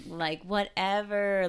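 college Kate. Acted. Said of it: "like, college Kate. She's like".

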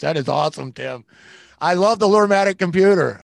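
loud, delighted and high; excited. Real, not acted. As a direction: burst out with real delight. Host delighted after funny skit.

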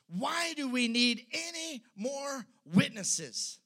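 a lightly voiced high priest, loud and slow; rally the crowd with mock outrage; high priest outraged. High priest to the council, indignant. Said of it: "he looks at the people and he says".

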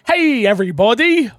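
"Hey, everybody" with a long stretched "every"; drawn-out every. Shown as a demonstration. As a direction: read "everybody" as written, "every" pulled long. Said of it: "B T Maverick seven oh seven says".

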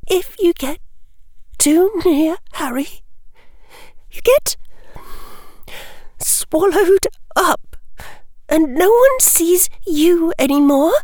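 put-on high, tearful girl's outburst; a girl pouring out hurt feelings; upset young girl. Hermione's anguished outburst.

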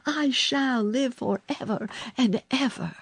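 high, elated vow; joyful cry. A narrator's reading. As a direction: proclaim it with rising joy. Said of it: "he cried".

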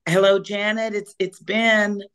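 small, shy little voice; sheepish. Retold or imitated. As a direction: sound a bit sheepish and timid. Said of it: "sheepish little voice".

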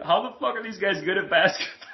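high, laughing amazement; amazed laugh. Retold or imitated. Fan marveling at Jokic and Luka, laughing. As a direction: laugh through the question in awe. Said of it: "I'm always like".

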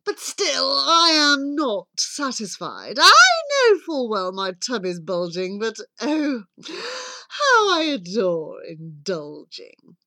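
swooping, self-indulgent wolf voice; hammed-up hungry wolf; greedy wolf. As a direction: relish it like a theatrical glutton. Greedy wolf savours his meals.

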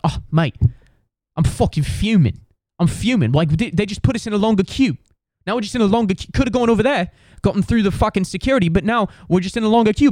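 high-pitched, indignant British bloke impression; British accent, fuming. British traveller griping to his friend about the longer queue, fuming British accent. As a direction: rant like a hammed-up angry British traveller. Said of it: "there was a couple British dudes".

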